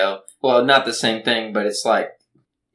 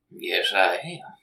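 whispered echo; 7 semitones lower, 4 dB quieter, slower than usual. Acted. Co-host echoes the line.

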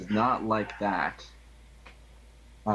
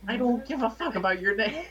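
gruff thug; 11 semitones higher than usual. Acted. Thug snaps back.

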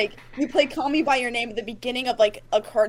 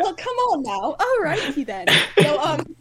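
mock Aussie accent; 4 semitones higher than usual. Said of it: "speak an Australian accent".

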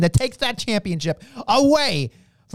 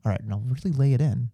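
gruff wrestler quote; 7 semitones lower, faster than usual. Retold or imitated. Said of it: "lean over to Gunther and be like".

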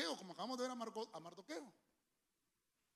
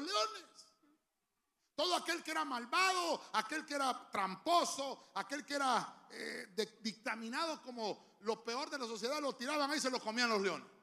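building fervor; 4 semitones higher, 4 dB louder than usual. Real, not acted. Preacher builds intensity.

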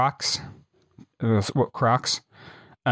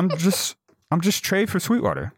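higher, tipsy mock plea; imitated drunk; 6 semitones higher than usual. Drunk stranger explains himself to Scotty, imitated drunk plea. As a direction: plead like a harmless drunk. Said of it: "he's wasted drunk".

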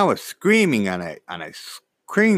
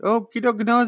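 flustered stammer; 6 semitones higher, 3 dB louder than usual. Retold or imitated. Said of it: "I'm like".

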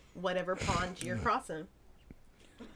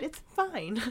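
higher-pitched, put-upon denial; mock "fine"; 5 semitones higher, 4 dB quieter than usual. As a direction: imitate someone insisting all is well. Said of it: "walking in the room after a fight".

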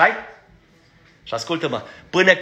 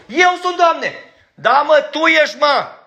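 voiced dialogue; 12 semitones higher, 4 dB louder, slower than usual. Judas and Christ voiced.

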